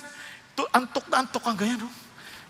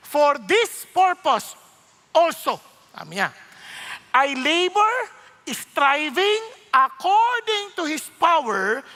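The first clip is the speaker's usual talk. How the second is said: scripture reading; 6 semitones higher, 4 dB louder, much slower than usual. Shown as a demonstration. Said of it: "Tingnan sabi niya".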